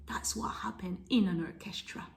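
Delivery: soft whisper to the class; whispered aside. Acted. Teacher telling kids about the orchestra, whispered. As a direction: breathe it out as a whisper.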